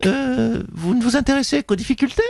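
Nathalie Loiseau impression. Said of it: "Bonjour Nathalie Loiseau".

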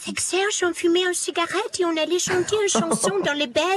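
put-on high, girlish English accent in French; hammed-up English accent, pitched well up; imitating a singer. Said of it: the speaker says she was watching a singer.

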